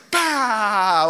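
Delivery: loud, drawn-out celebratory "bah"; pumped outburst. Retold or imitated. Elijah congratulating himself on his own insult, pumped outburst. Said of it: "he was pumped right there".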